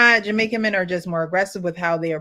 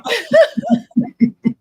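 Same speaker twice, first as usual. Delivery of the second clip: high burst of laughter breaking out; big laugh; 14 semitones higher, 6 dB louder than usual. Real, not acted. Host bursting out laughing at the co-host's joke. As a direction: crack up at the joke. Co-host mocks Jamaican men.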